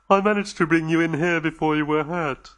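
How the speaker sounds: anxious, gentle alien voice; lightly voiced anxious alien reassuring the visitors; nervous alien host. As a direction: soothe the frightened guests, a little on edge. Dodo speaks.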